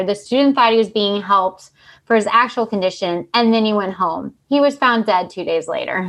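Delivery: measured read-aloud narration; story reading. A narrator's reading. Host reading cohosts a miscommunication case, even narration. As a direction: read the case out like a written report.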